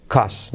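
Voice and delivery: "Cost" as "cas"; dropped T. Shown as a demonstration. Teacher showing learners "Cost" without its T, "cas". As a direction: end "Cost" on the S. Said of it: "Me voy a tomar un cas".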